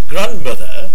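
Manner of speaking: put-on posh English accent; mock posh. Shown as a demonstration. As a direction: say it with a posh English lilt, questioning. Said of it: "didn't push".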